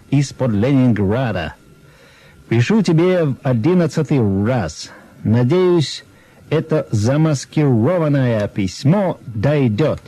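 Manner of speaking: put-on Russian read with a light American accent. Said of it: "с американским акцентом и прочту".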